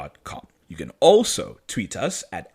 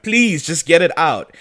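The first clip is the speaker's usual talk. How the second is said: mild mock pained plea, a bit higher; retold cry of pain; 4 semitones higher, 4 dB louder than usual. Recapping wounded Stefan begging Elena, in a mildly pained plea. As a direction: imitate pleading through pain, lightly acted. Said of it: "He starts crying out in pain".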